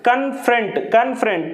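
కన్ఫ్రంట్ in two beats, కన్-ఫ్రంట్; syllable-by-syllable demo. Shown as a demonstration. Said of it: "two syllables ఉంటాయి".

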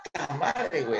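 calling out. Retold or imitated. Calling the coach urgently.

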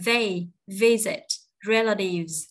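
"visit" and "relatives" slow and clearly stressed; key words stressed. Shown as a demonstration. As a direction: model reading, weight on "visit" and "relatives". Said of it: "tô đen những cái đứa mà nó quan trọng".

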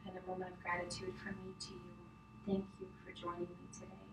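soft, close meditation voice; right in your ear. Acted. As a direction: hush it down close to the mic. Closing relaxation, soft close voice.

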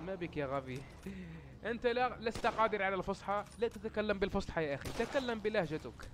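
lightly voiced heckler picking on his speech; a hint of a nagging viewer; scolding critic. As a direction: play a mildly exasperated critic.

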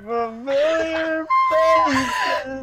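put-on slow, drawn-out Valley Girl voice. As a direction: stretch every word like a bubbly Valley Girl. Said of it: "do the Valley Girl voice".

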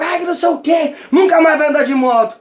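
upset father. Retold or imitated. Father forbids the motorbike.

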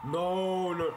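high, loud no of dread; frightened no. Real, not acted. Player as the creature gets closer, afraid. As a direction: recoil in fear. Monster approaching.

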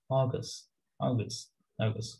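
অগাস্ট with the final t softened to an s, "aw-ges"; অগাস্ট said fast, ending "ges" with no t; অগাস্ট in fast British style, final t dropped; dropped t sound. Shown as a demonstration. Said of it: "এই টিটাকে তারা শ sound করে".

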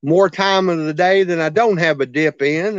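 talking around a dip; speaking with tobacco in lip; lip full of dip. Real, not acted. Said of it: "I've got a dip in my mouth".

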